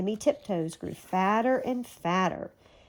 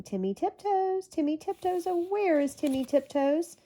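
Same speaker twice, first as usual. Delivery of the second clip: calling out; 8 semitones higher than usual. A narrator's reading. Goody searching the woods for her missing husband, calling out. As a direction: call for a lost husband, pitched well up. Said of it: "wandered all over the woods calling".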